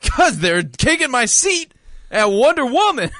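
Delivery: high-pitched mock grievance; indignant whine. Moviegoer complaining his seat was taken, whiny outrage. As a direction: protest like a hard-done-by man. Comic rant about lost seat.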